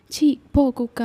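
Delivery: mild acted shout to shoo; mock scolding yell. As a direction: snap it sharply, a half-strength yell. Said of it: "అని గట్టిగా అరిస్తే". (కసురుతున్నట్టు కొంచెం గట్టిగా)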